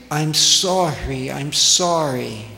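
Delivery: a lightly voiced upset employee begging forgiveness; distressed apology. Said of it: "she kept saying".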